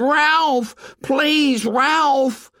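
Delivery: high, loud desperate call; shouting. A narrator's reading. Piggy shouting after Ralph as he runs off, high and loud. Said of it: "Piggy shouted".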